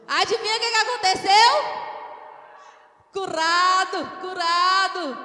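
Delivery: loud, high preacher's proclamation; rousing cry, stretched on the last words; triumphant shout. Real, not acted. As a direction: shout the miracle to the whole church. Preacher announces the healing.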